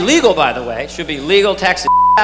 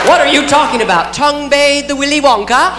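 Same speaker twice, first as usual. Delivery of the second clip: a cop yelling in shock; 6 semitones higher than usual. Retold or imitated. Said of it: "cop reacting".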